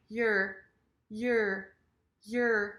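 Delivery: "Your" as short yer, y pushed first; reduced "your". Shown as a demonstration. Teacher drills the sound for learners, reduced "Your". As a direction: say "Your" with a quick y into a curled r. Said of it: "I do the y at the beginning".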